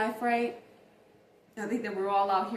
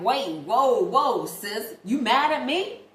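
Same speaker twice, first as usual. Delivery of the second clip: louder, a touch higher mock alarmed brother; imitating brother; 4 semitones higher, 8 dB louder, slower than usual. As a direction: play the startled brother backing off. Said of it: "my brother was like".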